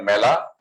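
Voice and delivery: মেলা said as "mae-la"; correct Bengali pronunciation. Shown as a demonstration. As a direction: open the first vowel of মেলা to "ae". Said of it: "আমরা এভাবে লিখি শুদ্ধ উচ্চারণ".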